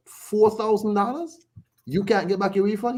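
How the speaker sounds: high-pitched retold disbelief; incredulous. Retelling a chat about a refused fight refund, incredulous. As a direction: quote your own astonished question, pitch shooting up.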